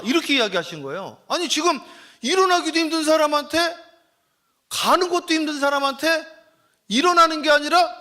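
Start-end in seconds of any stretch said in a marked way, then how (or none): 1.3-8.0 high, loud, indignant preaching build; rising preaching. Acted. Pastor pressing the congregation, rising preaching. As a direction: press the point harder with each phrase.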